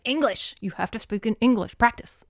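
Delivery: mock-stern dad ordering her to speak English. Dad scolding daughter to practise English, mock stern. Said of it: "her dad will just, like, come up behind her and be like".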